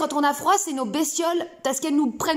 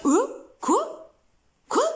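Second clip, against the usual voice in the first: confused bestiole; 7 semitones higher, much slower than usual. Acted. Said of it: "Là, la bestiole".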